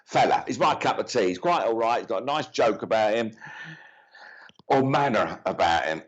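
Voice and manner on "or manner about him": whispered aside. Real, not acted. Quiet correction, aside to self.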